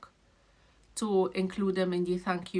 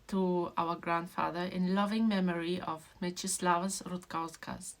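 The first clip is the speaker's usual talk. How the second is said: reading the dedication. Real, not acted. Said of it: "I made my whole family cry and myself with this, reading it".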